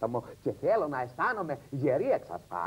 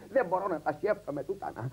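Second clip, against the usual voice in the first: ordinary talk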